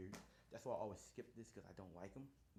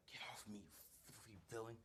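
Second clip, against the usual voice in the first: whisper; 5 dB quieter than usual. Acted. Shota fighting off the slime.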